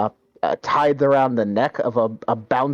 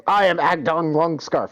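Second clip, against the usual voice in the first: lightly higher boastful brigand; 5 semitones higher than usual. Acted. Brigand introduces himself to the party, boastful. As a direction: puff up and introduce yourself grandly. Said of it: "he goes".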